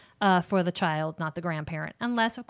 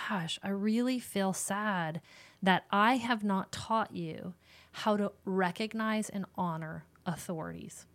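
gentle sad parent; 5 dB quieter than usual. Shown as a demonstration. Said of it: "in that moment be like".

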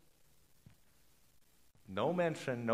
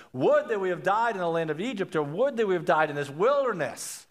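mildly theatrical lament, pitched up; a little dramatic; 4 semitones higher than usual. Acted. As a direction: wail the complaint with a light touch. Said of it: "A little dramatic".

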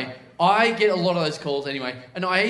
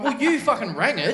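raised-pitch indignant retort; comic exasperated comeback; retold exasperation; 5 semitones higher than usual. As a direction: throw it back at the caller, mock indignant. Retells snapping back at caller.

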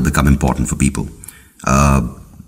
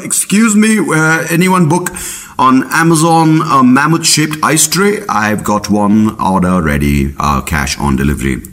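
mammoth selling ice trays; 8 semitones higher than usual. Retold or imitated. Mammoth in ice offering trays to customers, high mock sales pitch. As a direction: hawk the ice tray in a squeaky mammoth voice. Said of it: "They were just like".

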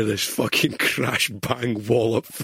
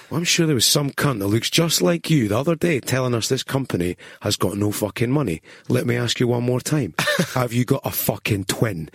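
raised, higher mock-confrontational rant; irate retold challenge; 3 semitones higher, 4 dB louder than usual. Toddy confronts a man about his twin, irate. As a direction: press the accusation, building to the question.

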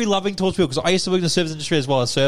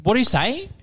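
aggressive questioning; 8 semitones higher than usual. Retold or imitated. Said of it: "Like, aggressively at me".

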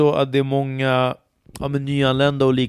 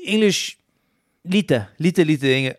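higher, halting beginner voice, repeating lite; imitating hesitant learner; 4 semitones higher, slower than usual. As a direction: mimic a shy student searching for words. Student answers about English.

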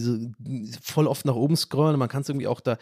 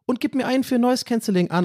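usual speaking voice

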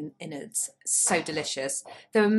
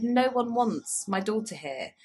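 hurt; 4 semitones higher, slower than usual. Retold or imitated. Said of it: "I said".

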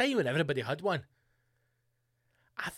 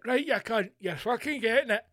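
higher-pitched mock battle cry at a fly; mock threat; 6 semitones higher than usual. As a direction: act out squaring up to the enemy. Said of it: "and you've went".

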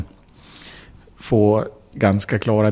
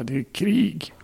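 stern boss; 7 semitones higher, 3 dB quieter, slower than usual. Retold or imitated. Boss refuses leave request.

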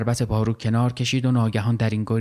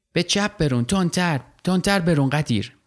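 high, eager call to row faster; urging on; 6 semitones higher than usual. Acted. Child yelling at Ghadir to row faster, eager. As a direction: push him to row harder.

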